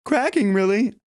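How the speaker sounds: high speaking in singing posture. Shown as a demonstration. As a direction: speak up high, ready to sing. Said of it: "this posture".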